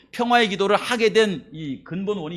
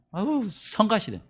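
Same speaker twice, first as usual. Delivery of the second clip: annoyed mutter; 4 semitones higher, 9 dB quieter, slower than usual. Retold or imitated. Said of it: "짜증도 나고".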